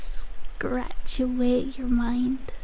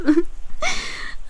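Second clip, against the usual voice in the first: higher-pitched scornful giggle; derisive laugh; 5 semitones higher than usual. Acted. Laughing at a patient who believed the nurse, derisive. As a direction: let out a short rising laugh of scorn.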